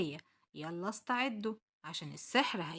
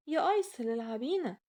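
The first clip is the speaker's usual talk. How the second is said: calling dolls; 4 semitones higher, 4 dB louder than usual. Acted. Dolls call to Aysel.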